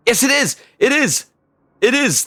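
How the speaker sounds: real joy at finding Bill's crater; excited yelling. Real, not acted. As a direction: shout it in triumph. Finds Bill at the crater.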